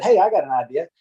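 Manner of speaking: mock inventor of surveying. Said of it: "I'm not the one that said".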